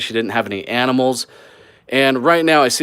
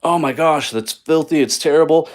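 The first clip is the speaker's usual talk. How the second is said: higher, playfully shocked gasp at the dirty tub; mock viewer disgust; 5 semitones higher than usual. Flipper voicing his viewers' shocked reaction at the stained tub, mock disgust. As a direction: put on an imagined viewer's horror, half-joking. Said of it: "a lot of you are probably thinking".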